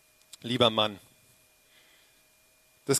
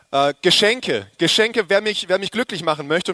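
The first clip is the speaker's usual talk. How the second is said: playful excitement; 3 semitones higher, 5 dB louder than usual. Acted. Jokes gifts are his love language.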